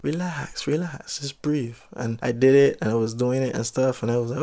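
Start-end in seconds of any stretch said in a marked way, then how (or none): 0.0-1.8 soft, slightly lifted coaxing; soothing. Retold or imitated. Instructor gesturing to a nervous diver to breathe, soothing. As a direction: imitate an instructor gently calming someone.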